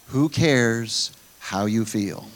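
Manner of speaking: dismissive retort. Acted. Rebuts the doubter's objection.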